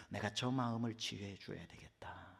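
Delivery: tender whispered resolve; Jesus quietly resolving to heal Peter, whispered; whispered thought. Acted. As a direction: whisper it like a private promise.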